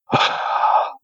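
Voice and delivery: a rough breathy exhale standing in for the growl; imitated growling breath. Copying the growl heard from under the bedroom window, rough breathy exhale. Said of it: "it was like".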